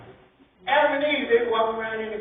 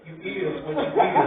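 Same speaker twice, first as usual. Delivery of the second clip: slower God voice; 4 semitones lower than usual. Retold or imitated. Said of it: "he would say".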